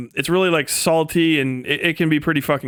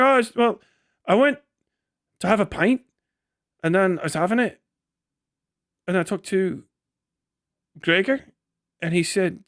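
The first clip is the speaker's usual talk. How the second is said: mock Scottish accent. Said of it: "I guess that's still Scottish".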